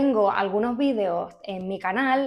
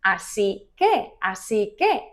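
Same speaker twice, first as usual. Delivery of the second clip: slow clear así que; slower than usual. Shown as a demonstration.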